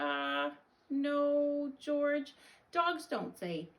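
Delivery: high, drawn-out motherly correction; dismayed correction. Acted. Mother telling George dogs don't meow, high dismay. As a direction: correct the dog in a high, slow voice.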